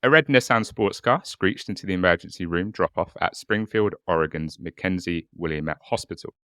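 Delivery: dramatic documentary storytelling; true crime narration. Acted. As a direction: build suspense like a true crime host. Cold open case narration.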